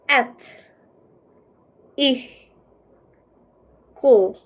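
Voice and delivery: "At. I. Cool." as separate beats with long pauses; syllable by syllable. Shown as a demonstration. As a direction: sound out "At", "I", "Cool" one at a time. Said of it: "Not ethical, but".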